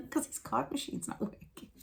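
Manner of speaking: high-pitched, laughing disbelief; gobsmacked. Retold or imitated. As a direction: retell it incredulously, breaking into a laugh. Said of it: "we were a bit gobsmacked".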